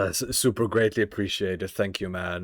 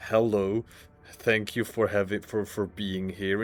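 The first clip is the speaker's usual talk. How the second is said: a mild, deliberately bored hello, trailing off; mock disinterest at the raiders; uninterested greeting. Shown as a demonstration. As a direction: greet them as if you couldn't care less. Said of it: "completely ignore the raid and just say".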